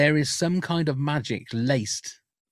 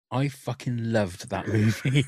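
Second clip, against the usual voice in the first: slow, deliberate, each word pressed; emphatic retort; slower than usual. Retold or imitated. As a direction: set her straight, slowly.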